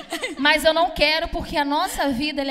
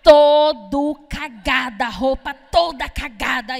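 shocked exclamation; 5 dB louder, much slower than usual. Acted. Shocked at the stained shirt.

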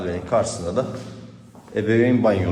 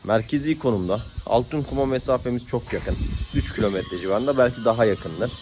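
loud raised voice against the wind; shouting over wind; 3 semitones higher, 4 dB louder than usual. Real, not acted. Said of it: "Rüzgarda sesim anlaşılmıyor".

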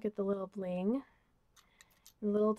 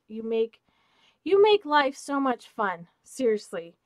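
excited gushing; 8 dB louder than usual. Real, not acted. Thanking friend Esme for the gifts, excited gushing. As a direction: gush it to your friend with real excitement. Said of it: "you can hear my excitement".

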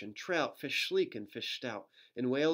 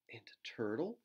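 whisper; 5 dB quieter than usual. Acted. Pointing out sea creatures.

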